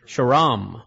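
"Sharam" closed on a firm M; M on the end. Shown as a demonstration. Host insists on an M, emphatic "Sharam". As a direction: say "Sharam" with the final M made clear. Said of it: "it's an M".

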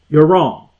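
firm, blunt verdict as God; hard rebuke. Acted. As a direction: say it as a firm correction. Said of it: "he may say it with very hard language".

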